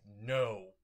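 sudden loud cry of No; shout. Acted. Midoriya wakes up and shouts to save All Might. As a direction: yell to stop the blow. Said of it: "and said".

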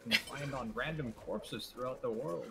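lightly voiced old game storyteller; measured, in-character pronouncement; Deckard Cain. Player quoting a game character to friend, lightly in character. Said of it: "talk about being Deck and Kane".

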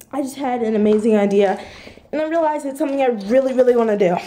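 fast, loud, excited rush. Real, not acted. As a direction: blurt out the big idea. Sudden amazing idea.

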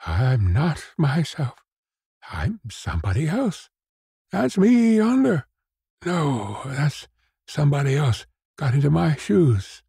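put-on lost old man's distraught outburst; at wit's end. A narrator's reading. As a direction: work up from confusion to a high, helpless wail. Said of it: "at his wit's end".

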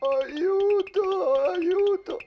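high cries for help; panicked cries. Acted. Boy fleeing monsters at night, crying out in fear. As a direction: call for help in fright.

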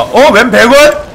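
high, loud drawn-out cry; outraged exclamation. Real, not acted. Streamer decrying cheap third-grade meat, loud outraged cry. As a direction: wail it out in loud indignation. Mock outrage at game event.

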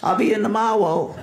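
faking being sick in a cartoon voice; lisping cartoon hunter, playing sick; Elmer Fudd sick voice. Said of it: "was Elmer Fudd".

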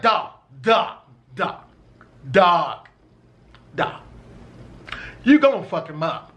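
lightly voiced homeboy drawn out; a hint of his laid-back friend; friend's way of talking. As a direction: stretch each dog, then low and sure. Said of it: "this is how he talks".

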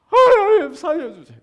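high, loud cry to God; desperate cry for help. Acted. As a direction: cry out from the fish's belly. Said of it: "요나가 뭐라 그래요".

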